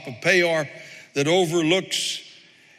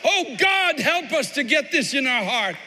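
fervent prayer; 8 semitones higher, slower than usual. Real, not acted.

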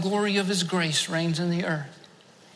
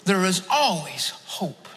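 voice of God; 2 semitones lower, 4 dB quieter than usual. Retold or imitated. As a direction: speak it gently and deeply, as a divine whisper to the heart. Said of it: "God spoke to my heart and he said".

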